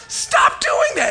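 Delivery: very high, slow, loud tearful plea; crying plea. Retold or imitated. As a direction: beg yourself to stop, half in tears. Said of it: "It's just like".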